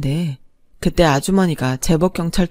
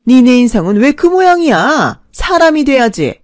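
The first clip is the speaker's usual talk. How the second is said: scolding; 2 semitones higher, 4 dB louder than usual. Retold or imitated. Mother-in-law scolds in a quarrel.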